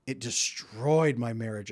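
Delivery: slow, heavy, a touch of sorrow; mild grieving testimony. Retold or imitated. Divorced wife telling of her ruined marriage, slow and sorrowful. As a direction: let the loss sink in slowly. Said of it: "from women who say".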